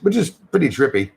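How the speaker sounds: ordinary talk, nothing marked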